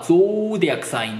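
ゾーディアックサイン with a long round "oh"; British pronunciation. Shown as a demonstration. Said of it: "グレートブリテン島の人は". (イギリス式に丸く伸ばす「ゾーディアックサイン」)

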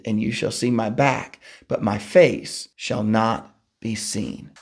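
measured, solemn Bible reading; scripture reading. Acted. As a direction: read the passage aloud to the congregation. Reads the Exodus passage aloud.

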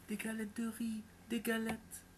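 high, small, timid voice; tiny voice. A narrator's reading. Boy hidden in the attic answering the ogress, tiny high voice. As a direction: squeak it out from hiding. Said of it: "d'une toute petite voix".

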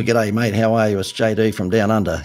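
lightly imitated Australian accent, a casual greeting; a hint of a broad Australian accent as a cheeky phone message; Crocodile Dundee accent. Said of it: "I put on my best Crocodile Dundee accent".

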